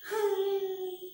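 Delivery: high, soft mock wail; mock sob held on a high note; pretend crying. Shown as a demonstration. Teacher showing children how to cry, pretend wail. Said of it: "How do you cry?".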